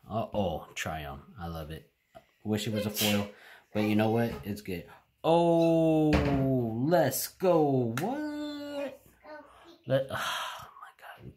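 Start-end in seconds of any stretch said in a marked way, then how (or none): 5.2-11.4 higher and louder yelps of disbelief, fading to a stunned slow breath; real thrill at a great pull, then awestruck; excited shout. Real, not acted. Opening a pack and pulling a great card: excited shout.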